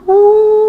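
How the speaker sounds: high, loud revving whoosh; engine rev whoosh. Retold or imitated. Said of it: "R P M-nya di atas tujuh ribu". (suara mesin meraung tinggi)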